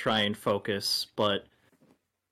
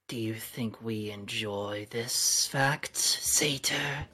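feral snarling. Acted. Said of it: "She snarls again".

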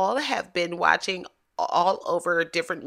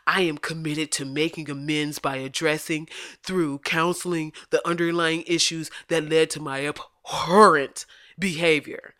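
mock apology voice. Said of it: "I gave him that voice".

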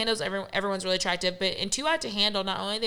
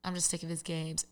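mock confessional; 4 semitones lower, 11 dB quieter than usual. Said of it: "she would say in the camera".

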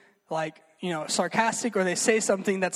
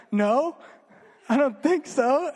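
mock uncertain denial; 7 semitones higher, 4 dB louder, slower than usual. Acting out unsure reply when questioned.

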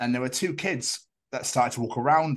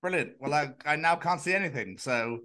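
a hint of a bored commentator; 2 semitones higher than usual. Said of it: "they're like".

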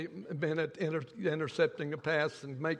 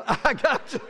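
laughing; 8 semitones higher, 9 dB louder than usual. Retold or imitated.

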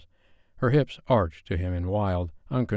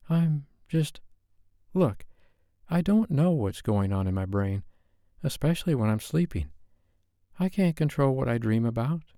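higher woman's voice, flustered; wife pleading her case; wife, frustrated; 6 semitones higher than usual. A narrator's reading. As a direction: explain yourself, flustered. Wife voice held.

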